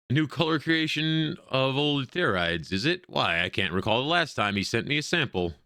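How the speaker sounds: lightly voiced old lady, starting high and slow; a hint of an elderly lady reminiscing; curious old woman. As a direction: muse aloud as a quaint old woman.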